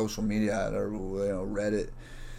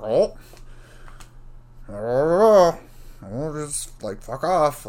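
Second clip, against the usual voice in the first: higher, scoffing mock brush-off; mock dismissive; 5 semitones higher, 4 dB louder, much slower than usual. Mimicking the tutor brushing him off, scoffing.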